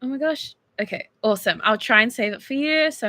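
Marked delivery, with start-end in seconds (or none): none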